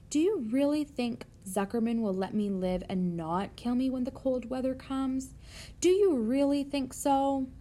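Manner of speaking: a touch of anxious pleading; worried pig. Acted. Voices worried Wilbur pleading for reassurance.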